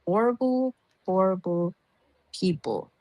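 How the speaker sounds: imitating her disgust at the others, rising at the end; retold outrage. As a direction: scold them, ending in disbelief. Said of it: "I'm like".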